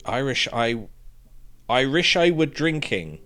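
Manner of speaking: Irish said like "I wish", an Irish accent try. Shown as a demonstration. Player struggling to say the pub name in an Irish accent. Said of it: "I can't say that in an American accent".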